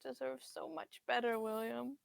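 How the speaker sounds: a soft, teary mother's voice; tearful mother. Acted. Mother near tears telling her son he deserves better. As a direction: hold back tears as you reassure him. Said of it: "eyes are kind of welling with tears".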